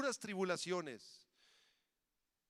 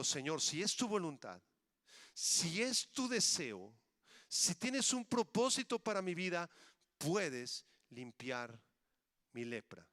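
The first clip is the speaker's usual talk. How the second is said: humble plea. Acted. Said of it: "parafrasear lo que el leproso".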